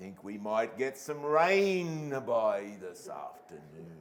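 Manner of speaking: very slow, unhurried country farmer drawl. Describing playing a farmer man, showing how he would talk very slow. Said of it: "And I would talk so slow".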